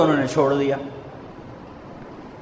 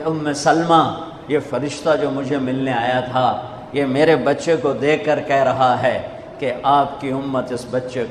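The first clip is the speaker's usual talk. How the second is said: softer, fading tearful retelling that drops almost to nothing; crying voice; 3 semitones lower, 3 dB quieter than usual. Retold or imitated. The Prophet tells Umm Salama of the grandson's fate, softly tearful. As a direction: let the quote sink into quiet grief. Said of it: "روتی آواز میں کہا".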